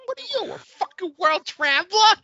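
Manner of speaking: put-on brash Long Island accent, rising in disbelief; her Brooklyn accent. Hosts watching the movie, mocking the tourist in a Brooklyn accent. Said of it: "Her accent is so".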